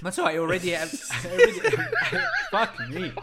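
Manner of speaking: cracking up mid-sentence; laughing. Real, not acted. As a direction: break into laughter.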